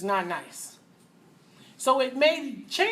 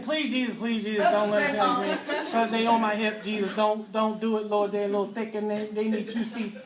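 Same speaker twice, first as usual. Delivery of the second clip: mock prayer. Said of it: "you think".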